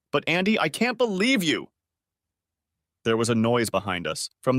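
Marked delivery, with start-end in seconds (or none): 0.1-1.7 crying. Acted. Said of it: "Susan began to cry again".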